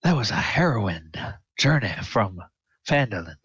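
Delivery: storyteller's voice gradually fading off; halting tale to friends, trailing into the distance; voice dying away. Acted. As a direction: let the tale fade as listeners leave. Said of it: "all hear his voice dying away".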